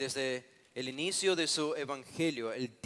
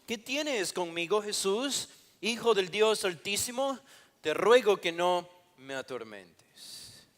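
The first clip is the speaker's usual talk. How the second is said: raised, drawn-out plea read aloud; mock loud cry; 5 semitones higher, 6 dB louder, slower than usual. Preacher reading the possessed man's plea to Jesus, moderately acted loud cry. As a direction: call it out higher and slower, short of shouting. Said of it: "lanzó un gran grito [...] exclamó a gran voz".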